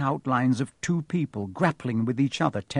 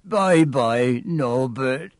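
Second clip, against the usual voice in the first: sobbing; much slower than usual. Acted. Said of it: "Hagrid sobbed".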